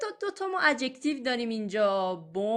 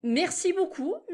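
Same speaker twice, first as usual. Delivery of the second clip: Merci beaucoup drawn out slowly, higher pitch; slow model take; 9 semitones higher, much slower than usual. Shown as a demonstration. Teacher models the thanks slowly for students.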